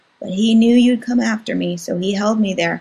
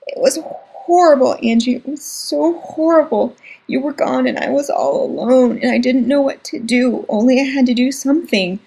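crying hard; 5 semitones higher than usual. Acted. Scared little brother recounting the ordeal, crying hard. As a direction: sob it out to your sister. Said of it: "He was crying so hard".

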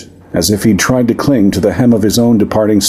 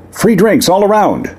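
higher, louder call to the crowd; 13 semitones higher than usual. Acted. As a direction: raise the voice over the hall. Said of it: "she said louder".

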